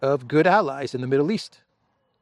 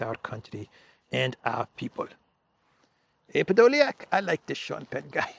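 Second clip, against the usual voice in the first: light mock Ukrainian accent, imitating Zelensky. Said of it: "I will do it in my Zelensky voice".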